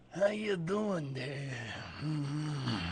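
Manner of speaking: slow, soft creepy whisper; leering old lecher. Pretend. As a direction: breathe it like a dirty old man. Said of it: "You sound like a dirty old man when you do that".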